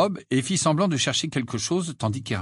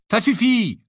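higher, louder, cross; annoyed; 12 semitones higher, 6 dB louder than usual. A narrator's reading. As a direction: cut them off irritated. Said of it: "avec un froncement de sourcils".

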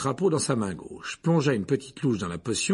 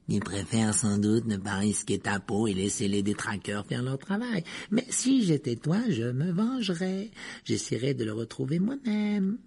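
mock him across the table; sneering Malfoy. Malfoy provokes Harry. (ton narquois)

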